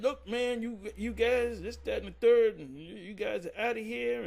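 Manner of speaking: high, exasperated council voice; imitating the leaders kicking them out; mock dismissal.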